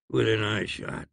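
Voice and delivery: usual speaking voice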